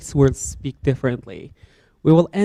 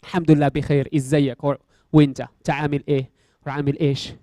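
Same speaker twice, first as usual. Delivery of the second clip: Egyptian dialect reply; 2 semitones lower, much faster than usual. Shown as a demonstration. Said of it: "I'm speaking, uh, Egyptian dialect right now".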